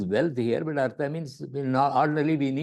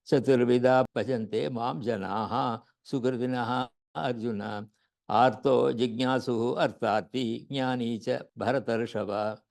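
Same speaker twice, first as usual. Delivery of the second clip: verse recitation. Shown as a demonstration. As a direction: recite the shloka in a steady, measured chant.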